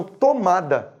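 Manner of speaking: "Tomada" leaned on with a falling close; stressed word. Shown as a demonstration. Teacher makes students hear the intonation of "Tomada", stressed and falling. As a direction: hit "Tomada" hard, then let it fall. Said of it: "Você percebe a entonação?".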